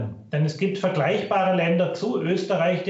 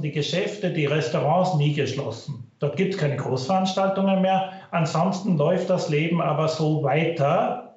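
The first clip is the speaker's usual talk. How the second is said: low quality stream. Real, not acted. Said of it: "Bitte entschuldigen Sie die Tonqualität".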